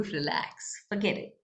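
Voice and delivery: soft, hushed inner voice saying let it go; a gentle breathy nudge to drop it; body's inner voice. Retold or imitated. The body telling an angry person, a soft hush. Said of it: "your body is telling you".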